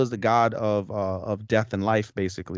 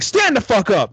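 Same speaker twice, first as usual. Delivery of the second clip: louder, higher mock yell; 11 semitones higher, 6 dB louder than usual. Mary ordering crying Will up, a mock yell. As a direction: bark it like a fed-up friend.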